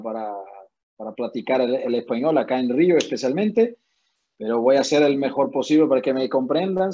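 Spanish with a Portuguese accent; portuñol. Real, not acted. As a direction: Brazilian speaking Spanish, Portuguese-tinged. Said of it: "les pido perdón por el portuñol".

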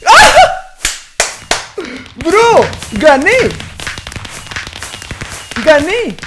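shrieking with laughter after a win; excited victory shout. Real, not acted. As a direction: yell in triumph, laughing. Wins the match in game. (grito de victoria emocionado)

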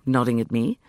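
usual speaking voice

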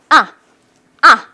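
brief, loud "아" dropping fast; falling tone. Shown as a demonstration. Teacher drilling the chop, sharp falling tone. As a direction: strike "아" downward in one chop. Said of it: "사성은 격파 동작".

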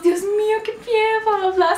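high-pitched mock-horrified chorus; hammed-up, squealed group alarm; fussing relatives. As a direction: imitate everyone fretting, high and exaggerated. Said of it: "Y fueron todos".

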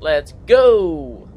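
loud triumphant shout; excited shout. Real, not acted. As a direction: cheer the kill. Revenge kill celebration.

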